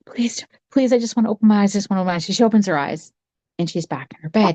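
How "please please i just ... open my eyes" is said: mild higher-pitched plea; pleading. Acted. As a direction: beg lightly, voicing a frightened girl. Girl pleads to wake up.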